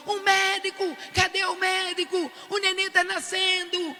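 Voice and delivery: high, urgent panicked call. Retold or imitated. Grandmother to the nurses, high panicked call for a doctor.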